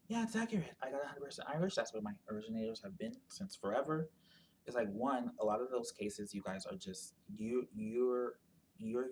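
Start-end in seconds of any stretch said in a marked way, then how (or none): 0.1-4.1 a burst higher on yeah, then settling; lightly imitating a smug test-taker; mock confident customer. Mocking people who trust their DNA results, light impression. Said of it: "They're like".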